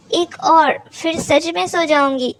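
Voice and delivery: a touch of playful teasing; lightly voiced cheeky request; joking. Tara teasing Meera for another kiss, playful. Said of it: "मजाक में बोला".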